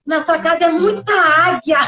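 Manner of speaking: a friend calming her down; gently reassuring; soothing friend. Retold or imitated. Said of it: "Aí ela falou assim".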